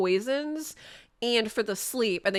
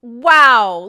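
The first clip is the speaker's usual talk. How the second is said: real surprised wow; 12 dB louder than usual. Real, not acted. Sudden big damage in the run.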